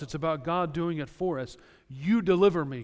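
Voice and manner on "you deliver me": loud, urgent plea to God; a pleading shout of a prayer; fervent cry. Acted. Preacher voicing a plea to God.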